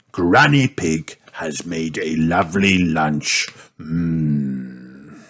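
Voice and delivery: lightly voiced wolf, savouring; a hint of a hungry wolf, ending in a low hum; hungry Mister Wolf. Mister Wolf relishes Granny Pig's lovely lunch, hungry.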